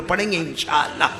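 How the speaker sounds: loud crowd call; call and response. Shown as a demonstration. Preacher leading the crowd to reply together. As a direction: lead the crowd's answer. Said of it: "ساتھ میں بولو".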